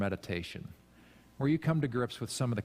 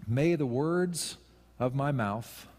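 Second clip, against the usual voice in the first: slow dictation; slower than usual. Shown as a demonstration. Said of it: "so write that down".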